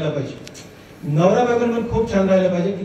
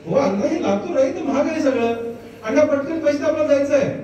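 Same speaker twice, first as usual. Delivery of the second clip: higher-pitched, imitated coaxing; urging father; 6 semitones higher than usual. Son urges father to pay so they can leave, mock impatient urging. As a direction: act out a son pressing for payment.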